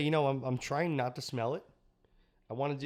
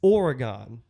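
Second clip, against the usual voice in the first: loud, drawn-out zombie groan; zombie moan; 6 dB louder, much slower than usual. Pretend. Beer named Brains, zombie joke.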